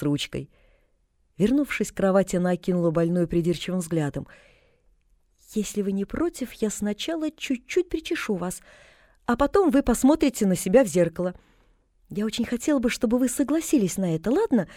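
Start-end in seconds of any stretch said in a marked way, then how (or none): 5.5-14.7 put-on coaxing girl. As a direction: gently coax her into it. Pollyanna coaxes gently.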